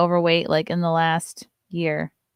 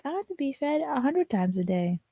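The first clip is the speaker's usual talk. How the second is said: voicing the dog; 7 semitones higher, 6 dB quieter than usual. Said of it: "She's like".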